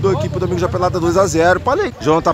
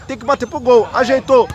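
higher, building goal call; excited goal call; 4 semitones higher than usual. Real, not acted. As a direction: lift the voice as the ball goes in. (narração de gol empolgada)

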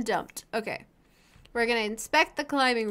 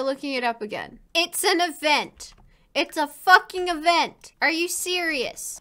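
ordinary delivery

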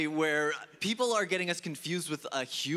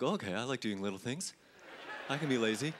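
lazy low agreement; 8 semitones lower, 6 dB quieter than usual. Retold or imitated. Vet agreeing lazily.

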